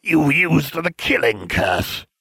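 high, loud, slow accusation; drawn-out incredulous villain; rising incredulity. Acted. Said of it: "His voice rose incredulously".

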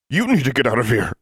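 man warns her urgently; urgent warning. A narrator's reading. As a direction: push them to leave.

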